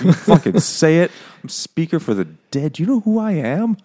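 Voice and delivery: hammed-up furious boast at the cowering translator; mock angry outburst. Ender snaps at the translator, mock angry outburst.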